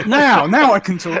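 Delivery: laughing. Real, not acted. Laughing after swallowing.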